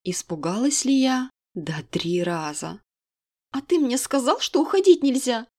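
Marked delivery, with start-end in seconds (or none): 3.5-5.5 higher, indignant outcry; indignant exclamation. Acted. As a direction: throw it back at him. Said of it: "воскликнула возмущённо".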